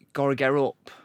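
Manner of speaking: "Gotta get up" run together as one word; Leicester joined-up words. Shown as a demonstration. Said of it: "we join words".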